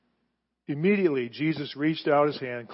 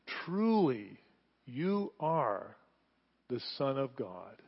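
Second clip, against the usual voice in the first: awed worship; 6 dB quieter, much slower than usual. A narrator's reading. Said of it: "they worshiped him and said".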